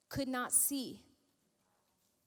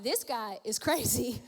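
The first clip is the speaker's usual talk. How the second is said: amused aside; 4 semitones lower than usual. Retold or imitated. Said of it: "he thought".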